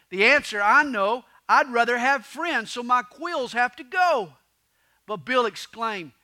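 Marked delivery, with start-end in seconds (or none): 0.1-4.4 excited resolve. Acted. Porcupine announces his solution.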